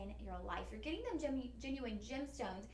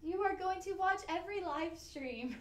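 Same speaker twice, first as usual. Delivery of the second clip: hypnotist voice; 7 semitones higher, 3 dB louder than usual. Pretend. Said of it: "Nice try on the hypnosis".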